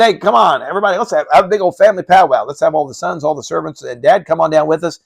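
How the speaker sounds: rally the family like a party host; eager Absalom. Retold or imitated. Absalom coaxing King David and the sons, hammed-up eager.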